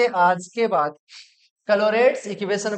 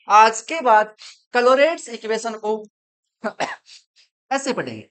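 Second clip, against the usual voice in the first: louder, full-energy teacher call; energetic announcement; 5 dB louder than usual. Shown as a demonstration. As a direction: pump up the class. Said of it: "एक भरपूर energy के साथ में". (भरपूर energy के साथ ज़ोर से)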